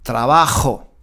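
"trabajo" with a clearly sounded J, a throat fricative; clear Spanish J. Shown as a demonstration. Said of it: "La J". ("trabajo" con la jota bien marcada)

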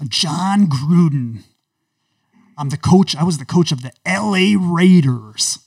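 lightly voiced football coach; half-serious gruff coach bluster; woke Jon Gruden. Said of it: "special character woke John Gruden".

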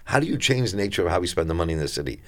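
ordinary talk, nothing marked

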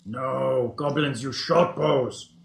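lightly voiced goblin, broken speech; a hint of a simple goblin. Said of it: "That should make easier goblin voices".

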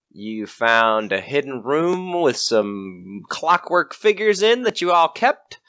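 slow, suspenseful story recap; old radio drama narrator. Acted. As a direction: draw out each step slowly. Game master slows for suspense.

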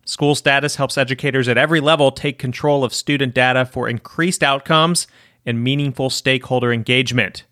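measured, even sponsor announcement; scripted underwriting read. Acted. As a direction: read it as a podcast sponsor credit. Reads the sponsor message.

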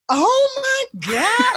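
high, slow, stretched cry-shout; crying scream. Retold or imitated. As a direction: wail it out, half crying, half cheering. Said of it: "And I'm like".

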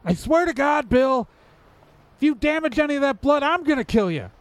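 high, fast furious yell; angry yelling. Acted. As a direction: yell the threat at him. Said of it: "I'm used to yelling at Bill".

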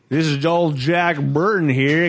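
slow, lightly voiced trucker swagger; Jack Burton voice. Shown as a demonstration. Showing friends the real Burton, slow cocky drawl.

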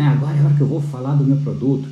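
vendedor imaginado, animado. Acted. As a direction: play the seller sensing the moment, fast and keyed up. Vendedor animado pensando na venda. (empolgado, falando rápido)

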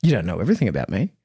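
put-on quick, pouting five-year-old; sulky kid insisting; little kid voice. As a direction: mimic a defiant little boy, fast. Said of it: "This is a five-year-old, folks".

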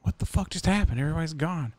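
a retold double take, pitch jumping up; stunned disbelief. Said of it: "I'm just like".

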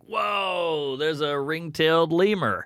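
lightly played drunk amazement; mock drunk. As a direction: act out a tipsy safari spotter. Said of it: "you're just drunk like".

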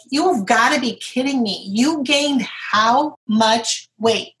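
mock blunt disbelief. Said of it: "that's kinda how she said it".

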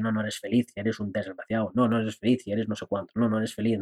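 a hint of a sneering inner voice. Shown as a demonstration. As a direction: murmur it like a nagging inner critic. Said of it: "tu mente empieza a decir".

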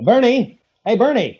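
high-pitched hail to someone along the drive; calling out. Acted. Man hailing his cousin from the car, calling out. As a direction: call out to get his attention.

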